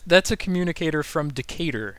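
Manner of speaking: COMMUNICATOR and DECATUR stressed alike on "cat"; same intonation. Shown as a demonstration. Joking with co-host, same intonation on COMMUNICATOR and DECATUR. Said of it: "that has the same intonation".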